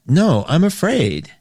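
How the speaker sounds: slow right down and own up to it; honest admission. Acted. Host dropping the lie about being afraid, honest admission. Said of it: "Lying is when we go".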